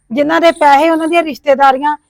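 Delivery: angry. Acted. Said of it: "ਇੰਨਾ ਨਾ ਗੁੱਸਾ ਕਰੋ".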